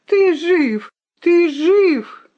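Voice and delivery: high, loud, relieved exclamation; overjoyed cry. A narrator's reading. The rooster finds his son alive, overjoyed. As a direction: cry out in joyful disbelief.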